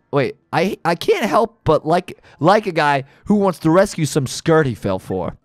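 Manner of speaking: gruff gangster boss, amused then menacing; a hint of a New York mob boss; tough mob boss. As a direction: lean into the Don's threats. Reads mob boss and henchmen dialogue.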